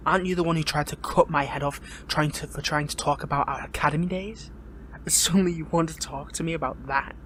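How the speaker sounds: indignant, pointed questioning; accusing. Acted. Prisoner confronts captor over past attack.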